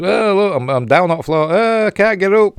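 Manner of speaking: high, whiny helpless voice; helpless damsel voice. Pretend. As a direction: play her as pathetic and stuck. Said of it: "She says".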